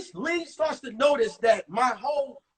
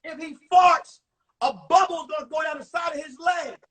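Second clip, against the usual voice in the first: higher jeering shout; kid mocking; 3 semitones higher, 4 dB louder than usual. A kid in the cafeteria roasts his jeans, shouting. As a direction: laugh at his jeans out loud. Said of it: "One kid said".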